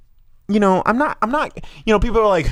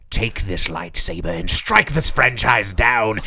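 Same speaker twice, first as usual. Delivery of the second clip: tempting devilish whisper; 4 semitones lower than usual. Acted. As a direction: whisper it like a dark lord luring. Plays tempting Sith lord.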